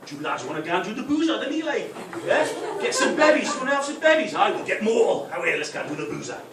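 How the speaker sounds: loud, high, eager Geordie lad; rally the lads in broad Geordie; hammed-up Geordie pub invitation; Geordie accent. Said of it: "my stupid Geordie accent".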